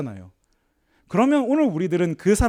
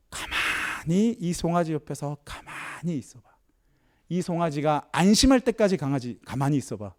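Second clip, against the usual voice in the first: gentle grandmother; 5 dB quieter than usual. Retold or imitated. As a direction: coax the boy to stay still beside the calf. Grandmother advises the boy gently.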